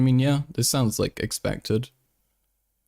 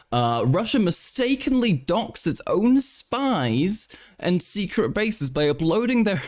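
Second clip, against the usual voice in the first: mock character voice; 4 semitones higher than usual. Mock voice reading Russia article.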